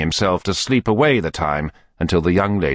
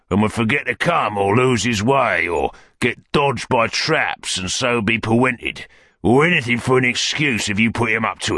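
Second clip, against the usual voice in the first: put-on rough villain overruling the old fence, higher pitched; Sikes, scornfully decisive; 4 semitones higher than usual. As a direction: lightly play a thug laying down orders.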